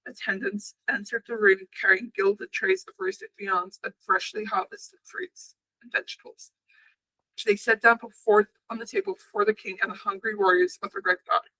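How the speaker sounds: measured storybook reading; story narration. A narrator's reading. Narrator reading an old legend to podcast listeners, story narration. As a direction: read the legend aloud, steadily.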